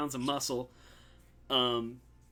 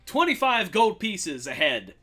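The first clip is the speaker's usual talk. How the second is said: louder salesman pitch; showy mayor; 3 semitones higher, 5 dB louder than usual. Acted. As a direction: sell the bounty to the crowd. Mayor offers bounty.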